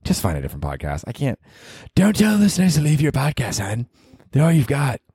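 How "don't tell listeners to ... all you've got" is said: mocking alter ego. Host mocks himself in put-on voice.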